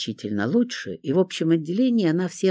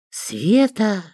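mock hiss; 7 semitones higher, 3 dB louder than usual. A narrator's reading. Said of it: "зашипела я".

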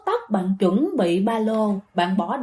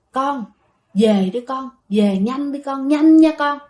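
drawn-out call, rising louder at the end; retold dream voice calling, ending raised; father urging; 4 dB louder than usual. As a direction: summon the child home, building in urgency.

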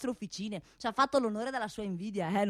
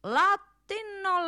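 drawn-out high latino; 8 semitones higher, much slower than usual. Acted. Mocking the Latin speaker, drawn-out high "Latino,". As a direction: stretch "Latino," slowly, pitched well up. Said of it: "parla pure latino".

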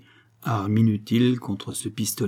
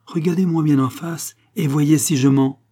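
louder, higher commanding challenge; firm, convinced; 5 semitones higher, 5 dB louder than usual. A narrator's reading. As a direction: challenge him with total conviction. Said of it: "d'une voix si ferme, avec un accent si convaincu".

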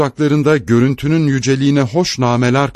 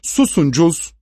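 higher, mildly commanding hush; 6 semitones higher than usual. A narrator's reading. Mother silencing her son sharply, commanding. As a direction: silence the child with authority. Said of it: "diye bağırdı anne buyurgan bir sesle".

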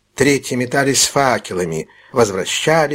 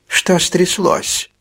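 high, slow, anxious question; a worried old man's startled ask; alarmed question; 7 semitones higher, much slower than usual. Acted. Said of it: "с тревогой спросил Феджин".

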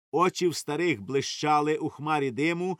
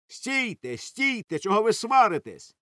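high, raised call to stop; 7 semitones higher, 3 dB louder than usual. A narrator's reading. Rustem calls to the arguing crowd to stop. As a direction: break up the quarrel. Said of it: "гукнув Рустем".

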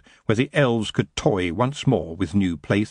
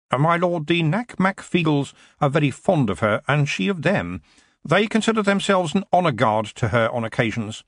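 slightly higher, lightly voiced aide; a hint of a careful secretary; deferential secretary; 5 semitones higher than usual. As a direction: report respectfully to a superior.

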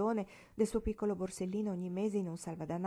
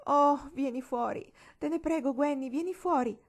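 pleading; 7 semitones higher, 7 dB louder than usual. A narrator's reading. Marigold begs Gwendolyn to come out, high and pleading.

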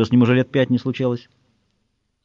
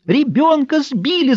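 high, slow alarmed cry; shouting woman; 11 semitones higher, slower than usual. A narrator's reading. Woman in the crowd cries out about the child, high and slow. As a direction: call out to the yard in alarm. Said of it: "закричала женщина".

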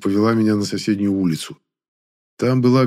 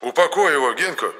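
irritated; 6 semitones higher than usual. A narrator's reading. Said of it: "раздражённо сказал Енох".

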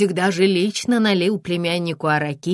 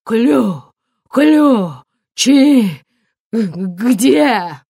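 stammering; 4 semitones higher, 7 dB louder, much slower than usual. A narrator's reading. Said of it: "Эдик всё ещё заикался".

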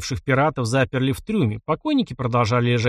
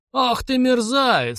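high, slow outburst of rage; boiling over; 11 semitones higher, slower than usual. A narrator's reading. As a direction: flare up at the scoundrel. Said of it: "вскипел Карл Юхан". (вспыльчиво, высоко и протяжно)

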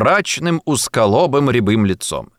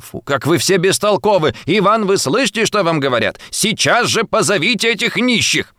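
irritable lady; 7 semitones higher than usual. A narrator's reading. Nervous lady scolds servants.

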